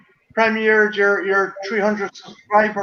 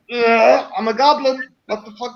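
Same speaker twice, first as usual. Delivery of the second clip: goblin character; 2 semitones higher than usual. Retold or imitated. Retelling a music video to friends, mock goblin. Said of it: "the goblin kind of character".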